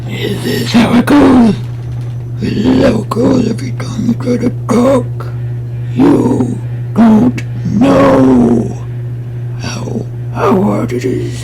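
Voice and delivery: very high, drawn-out put-on voice; trying out a voice. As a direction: stretch the words out way up high and loud. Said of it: "Trying to figure out this voice".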